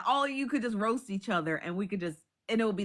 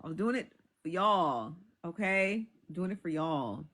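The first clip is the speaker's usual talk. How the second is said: low, fading mantra; 5 semitones lower, slower than usual. Shown as a demonstration. To viewers about holding in laughs, a low fading mantra. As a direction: lower and lower, slowly repeating. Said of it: "repeated mantra, sinking lower".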